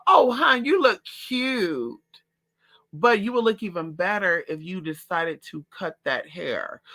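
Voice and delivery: high, sugary fake-sweet voice; passive aggressive. Mimicking a passive-aggressive Aquarius friend, fake sweet. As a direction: sweetly insult her with a smile. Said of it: "they like to be very passive aggressive".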